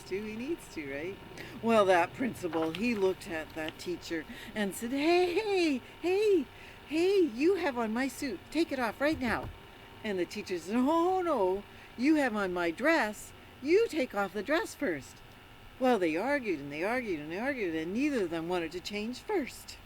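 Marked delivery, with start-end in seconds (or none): 4.9-9.5 high, loud indignant protest; angry principal. Acted. Principal demands his suit back from the teacher, indignant. 10.8-15.2 loud, higher defiant retort; arguing teacher. Acted. Teacher argues back at the principal over the dress, defiant.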